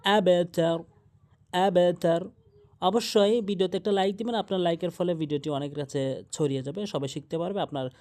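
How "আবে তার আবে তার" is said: আবে তার with a crisp e-like bounce on the b; measured আবে তার, unrounded b release; downward qalqalah. Shown as a demonstration. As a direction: recite আবে তার firmly, echoing b downwards. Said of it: "নিচের দিকে হবে".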